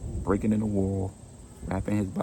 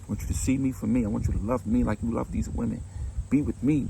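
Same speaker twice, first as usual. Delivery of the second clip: higher and faster, mounting anger; building rage; 4 semitones higher than usual. Retold or imitated. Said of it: "this rage started to build in".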